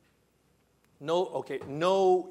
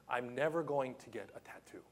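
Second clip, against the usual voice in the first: a soft, unvoiced whisper to himself; whispered aside; 4 semitones lower, 6 dB quieter than usual. Preacher musing to himself about a tattoo, in a whisper. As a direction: breathe it as a secret aside.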